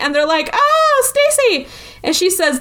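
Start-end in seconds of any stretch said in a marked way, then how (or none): 0.5-1.7 high-pitched retold cry; hammed-up appalled exclamation; mock dismay. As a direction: imitate shocked campers, pitched way up. Retold dismayed reaction to Stacy.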